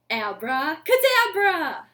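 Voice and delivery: loud showy magician's call, falling at the end; magic word. Pretend. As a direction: proclaim it like a stage magician. Magic trick for kids.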